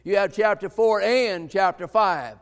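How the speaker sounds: emphasize the word "and"; stress on "and". Shown as a demonstration. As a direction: make "and" the key word of the phrase. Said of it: "stopped and emphasized that word".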